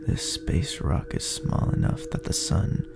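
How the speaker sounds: ordinary delivery, nothing marked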